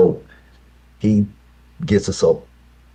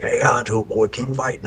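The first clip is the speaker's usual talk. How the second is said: put-on higher, hearty old man urging the boy; grandpa cheering on; 8 semitones higher than usual. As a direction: egg him on like a grandfather. Grandpa voiced, laughing at boy.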